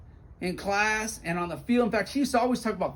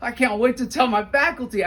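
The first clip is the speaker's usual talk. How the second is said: excited; 3 semitones higher, 4 dB louder than usual. Retold or imitated. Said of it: "And I was so excited".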